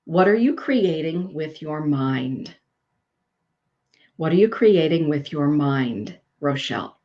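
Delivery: slow card message. Acted. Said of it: "The air dragon says".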